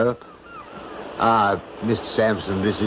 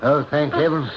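high panicked cries of stop; panicked shout at the cliff edge; frantic shouting; 9 semitones higher than usual. Acted.

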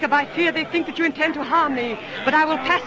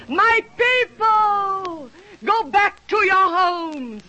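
shouting to a crowd; 3 semitones higher, much slower than usual. Acted. Princess addresses the crowd.

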